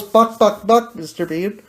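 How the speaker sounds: a playful hint of a clucking chicken. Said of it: "The chicken goes".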